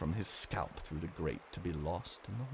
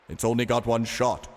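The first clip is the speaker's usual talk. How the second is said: explaining; 4 semitones higher, 9 dB louder than usual. Acted. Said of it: "elucidated Kyne".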